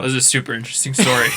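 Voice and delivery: quick, insincere praise; fake sincerity. Real, not acted. Co-host mocks the dull story, falsely sincere. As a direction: toss off a sarcastic compliment. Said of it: "you sounded really sincere there".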